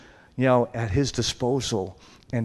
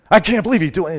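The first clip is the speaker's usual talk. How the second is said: astonished exclaim; 7 semitones higher, 9 dB louder, faster than usual. Retold or imitated. Onlooker sees man praying.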